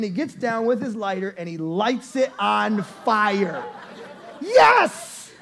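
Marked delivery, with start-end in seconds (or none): 4.4-5.3 high, loud, slow cheering shout; thrilled shout. Real, not acted. Preacher cheering Ben's burning shirt, shouting with delight. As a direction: cheer it out with a laugh. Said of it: "I'm thinking in my mind".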